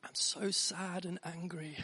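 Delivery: slow, hushed whisper of a tantrum line; mock outburst shrunk to a whisper; whispered imitation. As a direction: whisper it drawn out, very softly. Whispered echo of daughter's outburst.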